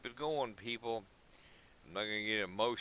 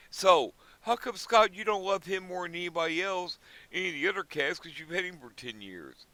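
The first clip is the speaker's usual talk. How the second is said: much higher and louder, a teasing voice questioning himself; mock interviewer voice; 7 semitones higher, 5 dB louder than usual. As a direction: pop up as a nosy off-screen questioner. Asks himself as another voice.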